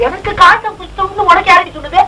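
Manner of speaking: high, wailing question through tears; tearful protest. Acted. Tearful quarrel over the diagnosis.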